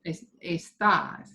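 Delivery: está modelled slowly for a learner; slow, careful teacher's está; pronunciation model. Shown as a demonstration. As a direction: show how está is pronounced, slowly. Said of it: "get the pronunciation of it".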